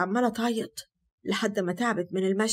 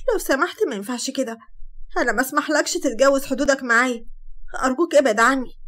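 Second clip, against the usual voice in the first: rising, louder pleading refusal; pushing him away; 3 semitones higher, 4 dB louder than usual. Acted. Sara pushing Hatem away, pleading louder. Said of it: "حاولت تزق وهي بتقول".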